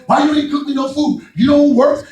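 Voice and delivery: hammed-up demanding husband, laughing at the end; mock husband scolding. Husband scolding his stay-home wife, mock demanding. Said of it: "my wife will tell you".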